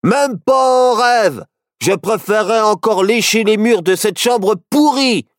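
high, indignant outburst; worked-up, high-pitched defiance; annoyed. A narrator's reading. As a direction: refuse crossly, dragging the first words. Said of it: "s'énerva Barnabé".

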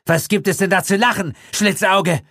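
high, tense snarl at him; nervous, snarling gunman. A narrator's reading. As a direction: spit the insult out nervously. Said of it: "fauchte Gildritch ihn an".

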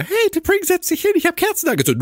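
mock deep Spock voice; imitating a dubbed deep voice. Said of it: "tiefe Stimme von Ethan Peck".

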